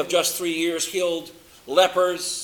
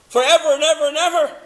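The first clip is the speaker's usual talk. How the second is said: higher, louder, faster rush of evers; preacher swelling on eternal love; rising fervor; 7 semitones higher, 4 dB louder, faster than usual. Real, not acted. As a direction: sweep up with excitement. Building emphasis on eternal compassion.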